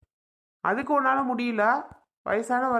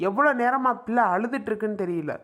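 angry scolding. Acted. Husband to wife about the crying baby, angry. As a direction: snap at her in exasperation.

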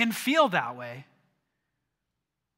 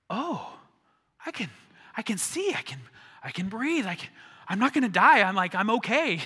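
higher, gasping relief; relieved gasping; 3 semitones higher, 3 dB louder than usual. Retold or imitated. Disciples after the storm calms, gasping relief. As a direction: breathe out like you just survived. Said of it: "all of a sudden it's like".

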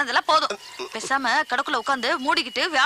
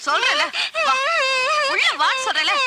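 scolding mother; 10 semitones higher than usual. Acted. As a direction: snap at the child to come in. Mother scolding a stubborn child.

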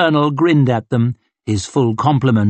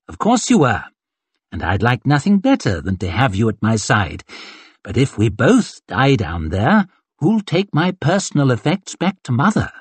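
breezy command from a vain colonel; arrogant colonel. Acted. Colonel dismissing his young corporal, lightly haughty. Glocta mocks Tunney.

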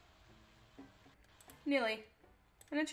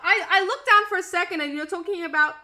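loud laughing through the words; laughing disbelief; 4 semitones higher, 10 dB louder than usual. Real, not acted. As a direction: giggle while explaining. Laughing at chat.

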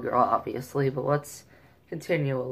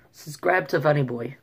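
slight attempt at a Canadian accent; lightly imitated Canadian, rising at the end. Shown as a demonstration. Vlogger trying accents on his channel plug, mild Canadian.

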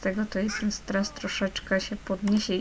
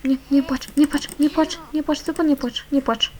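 higher and louder, begging her not to cry; urgent pleading; 5 semitones higher, 4 dB louder than usual. Acted. Mother begging a crying baby, urgent high plea. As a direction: plead quickly, nie płacz over and over.

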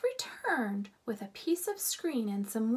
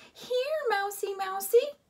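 high coaxing call, louder at the end; sing-song calling; 10 semitones higher, 5 dB louder than usual. A narrator's reading. Lena calling the mouse, high and coaxing. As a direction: coax the mouse again. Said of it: "called Lena".

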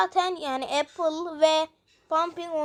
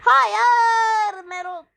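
slow, higher, louder desperate plea; pleading; 6 semitones higher, 6 dB louder, much slower than usual. Acted. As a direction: beg him to stop, drawn out. Begging the attacker.

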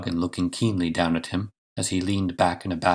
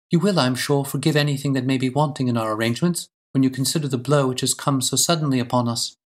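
a hint of a gracious lady, higher pitch; slightly raised, courteous lady's voice; lightly voiced gracious lady; 6 semitones higher than usual. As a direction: play a lady welcoming a guest, lightly.

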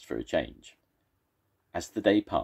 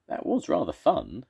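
giggling; 9 semitones higher, 4 dB louder than usual. Acted. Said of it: "giggled the first monster".

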